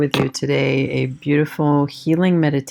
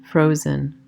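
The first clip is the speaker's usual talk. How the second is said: calm meditation voice with long pauses; guided meditation; 3 semitones higher than usual. Acted. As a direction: guide them gently inward, leaving space after each phrase.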